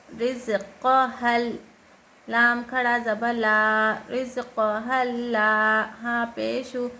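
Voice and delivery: slow, measured chant, long vowels held; Quran spelling recitation. Shown as a demonstration. Teacher showing learners how to join words, slow recitation. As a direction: spell each syllable slowly, then chant it joined.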